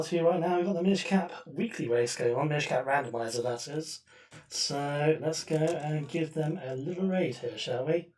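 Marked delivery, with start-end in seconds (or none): 4.5-8.1 doubled mic echo; echoing tunnel. Real, not acted. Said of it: "I sound like I'm in a tunnel".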